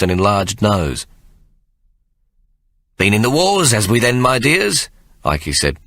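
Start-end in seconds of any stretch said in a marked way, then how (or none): 3.0-4.9 a hint of an old rogue, higher and teasing; lightly voiced old uncle fussing over the boys; kindly old Ike. Ike teasing the bruised boys, lightly voiced old man.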